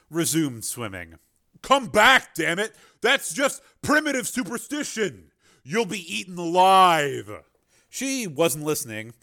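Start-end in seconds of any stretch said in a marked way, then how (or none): 1.6-7.4 much higher, louder, desperate shout; shouting after her. Acted. Miller shouts after Mara as she swims away, desperate and loud. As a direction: yell across the water to stop her.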